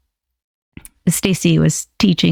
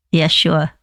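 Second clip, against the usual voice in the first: light New Jersey puppet voice; Jersey accent. Pretend. Puppet agreeing to move to top camera, Jersey accent. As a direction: answer with a touch of Jersey. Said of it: "That's the jersey".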